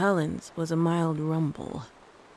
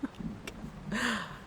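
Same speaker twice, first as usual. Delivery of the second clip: soft laugh at her own bad accent; sheepish chuckle; embarrassed laugh; 4 semitones higher, 10 dB quieter than usual. Real, not acted. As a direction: laugh it off quietly. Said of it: "I can't do the accent".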